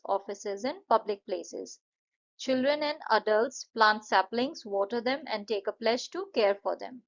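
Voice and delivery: slow, careful model speech; formal speech. Shown as a demonstration. Teacher models a Van Mahotsav speech, slow and formal. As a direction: recite it like a school assembly talk, slowly.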